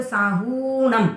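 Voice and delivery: "साहूणम" with हू held long; "साहूणम" as saa-huuu-nam. Shown as a demonstration. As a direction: linger on the oo of "साहूणम". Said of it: "हु की मात्रा दीर्घ होने से".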